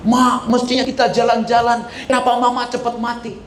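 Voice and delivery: high-pitched grieving child, acted out; mock wailing lament. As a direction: plead with a dead mother in a high, hammed-up lament. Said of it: "engkau teriak-teriak, nangis-nangis".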